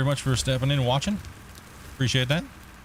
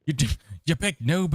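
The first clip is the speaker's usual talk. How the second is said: playful shout; 7 semitones higher than usual. Real, not acted. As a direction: shout to wake a friend. Calling out to sleeping friend.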